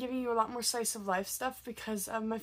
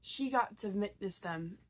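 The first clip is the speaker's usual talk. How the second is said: measured storytelling with long pauses; story narration; 2 semitones lower than usual. Acted. Back to the little girl's story for viewers, story narration. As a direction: tell it like a fairy tale, unhurried. Resumes the story after interruption.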